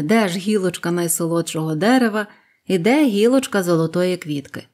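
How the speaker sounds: ordinary delivery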